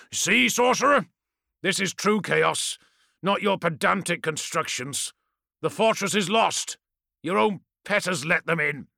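gloating warlord. Acted. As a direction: taunt with wild glee. Villain lord taunting the sorcerer.

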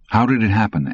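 lost, plaintive question. Acted. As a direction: ask it lost and cheated. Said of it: "came out sounding plaintive and lost".

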